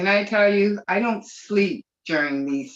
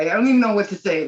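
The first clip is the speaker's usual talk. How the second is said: fighting back tears; 4 semitones higher, 5 dB louder, much faster than usual. Real, not acted. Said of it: "I'm trying so hard not to cry".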